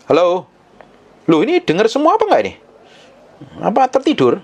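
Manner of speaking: high, quick teasing call to a sleepy crowd; high mock-surprised check on the listeners. Real, not acted. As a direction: wake them up with a high playful jab. Preacher calling out to drowsy congregation.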